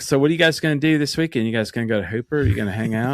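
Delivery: casual West Texas small talk; West Texas accent. Shown as a demonstration. Showing friends the hometown accent that returns, West Texas accent. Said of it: "what does West Texas sound like".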